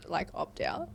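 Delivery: whispered under the breath; whispering. Real, not acted. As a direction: drop to a whisper. Jokey aside in group chat.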